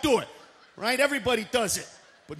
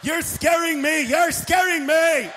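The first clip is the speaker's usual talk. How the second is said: louder alarmed mock cry; mock frightened voice; 2 semitones higher, 4 dB louder, slower than usual. Retarded people staring at midgets, a loud mock fright.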